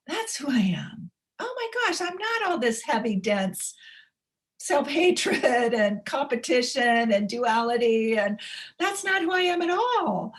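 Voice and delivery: high, amazed voice of someone waking up; awed realization. Pretend. Awakened self realizing it isn't self-hatred, high amazed cry.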